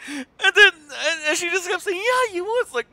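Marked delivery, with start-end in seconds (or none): 0.1-2.0 laughing while telling. Real, not acted. 2.0-2.6 high daughter voice. Retold or imitated.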